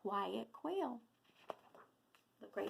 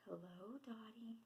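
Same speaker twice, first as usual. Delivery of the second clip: very soft, timid little greeting; whispering quail; 13 dB quieter than usual. A narrator's reading. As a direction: answer in a hushed voice. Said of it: "whispers the quiet quail".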